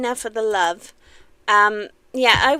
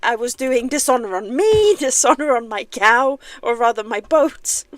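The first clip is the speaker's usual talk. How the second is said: mock Mushu curse; 4 dB louder than usual. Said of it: "I was doing it instead of you".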